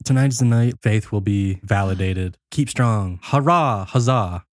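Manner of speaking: lightly hammed-up leader's address; emphatic rallying cry, mildly mocking; mock proclamation. Doctor Joseph addresses followers on video, mock-rousing.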